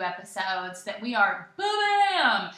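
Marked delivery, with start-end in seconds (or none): 1.6-2.5 playful ba-bam. Real, not acted. Fanfare on a podcast gift.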